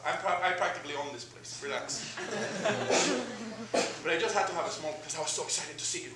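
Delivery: a giddy hometown pal catching up; starstruck old buddy. Retold or imitated. Voicing Ismael at length.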